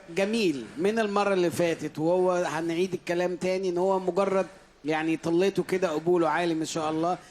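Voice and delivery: usual speaking voice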